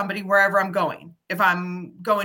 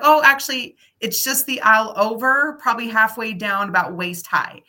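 louder, bright and helpful; cheerful directions to a lost old man; eager helper; 5 dB louder than usual. Retold or imitated. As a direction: point the way with eager energy. Helping the lost gentleman.

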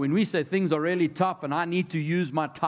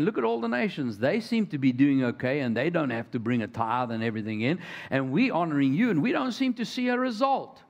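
whining Israelites. Retold or imitated. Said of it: "looking at the rest of the nation and saying".

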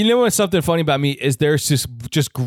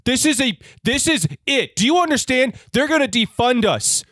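angry boss; 2 semitones higher than usual. Acted. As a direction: lay down orders to a subordinate. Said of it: "you're the chief".

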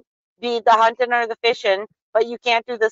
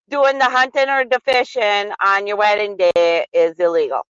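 Wisconsin accent; 2 semitones higher than usual. Shown as a demonstration. Correcting the co-host about what is illegal, Wisconsin accent. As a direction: insist in a broad Wisconsin accent. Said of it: "with the Wisconsin accent if you want".

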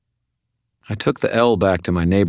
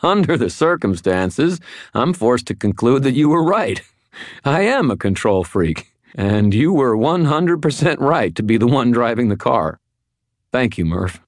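put-on loud, high-pitched drunken giddiness; drunken laughing; 7 semitones higher, 5 dB louder than usual. A narrator's reading. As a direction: crow it like a giggly drunk. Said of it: "I started laughing like a drunk".

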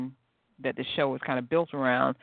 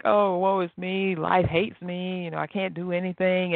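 mock boo-hooing; 4 semitones higher than usual. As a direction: play at wallowing in misery. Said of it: "you're boo-hooing, and you're all sad".

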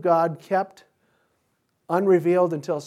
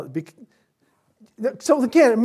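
ordinary delivery

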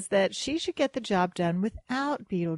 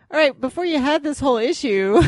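exasperated scolding; 5 semitones higher, 8 dB louder than usual. Acted. Mock scolding of couples who split.

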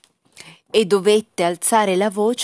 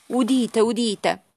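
calling out the edict's close; town crier; 3 semitones higher, slower than usual. Acted. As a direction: proclaim it like a herald. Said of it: "rese pubblico un editto".

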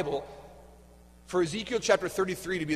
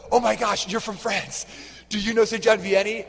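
raised, louder retold excitement; retold eager greeting; 4 semitones higher, 3 dB louder than usual. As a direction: act out gushing at someone from France. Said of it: "I would walk up and be like".

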